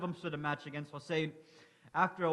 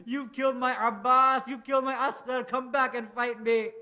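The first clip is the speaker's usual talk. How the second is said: higher and louder, hurling the names at them; furious shout; 5 semitones higher, 6 dB louder than usual. A narrator's reading. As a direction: roar a challenge at the fleeing enemy. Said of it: "Hussein would scream at them".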